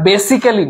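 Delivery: "basically" with an extra vowel, "BAY-si-ke-lee"; wrong pronunciation. Shown as a demonstration. Teacher showing students how not to say it, mispronounced "basically" as "BAY-si-ke-lee". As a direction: say "basically" in four syllables, sounding the "-cal-". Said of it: "এটার উচ্চারণটা basically হবে না".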